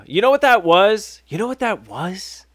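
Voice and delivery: high, swooping mock indignation; put-on affronted voice, high and insistent; indignant. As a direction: act out an offended rhetorical question, pitch arching up. Acts woman indignantly explaining the recording.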